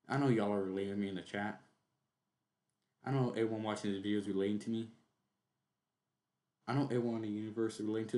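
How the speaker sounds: rattled-off parody of a confessor; mock earnest appeal. Streamer parodying the video's host to chat, rushed mock appeal. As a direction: rush through it, imitating someone sure everyone relates.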